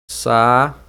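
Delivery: SAÚDE as "sa... ú... de" with long pauses; three widely spaced syllables of saúde; syllable-by-syllable separation. Shown as a demonstration. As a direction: dictate saúde leaving the U all alone. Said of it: "Eu tenho aqui o U".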